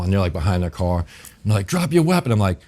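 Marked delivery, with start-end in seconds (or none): 1.7-2.3 high barked mock cop command; mock cop shout. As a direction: yell it like a cop behind a car. Cop orders him, guns drawn.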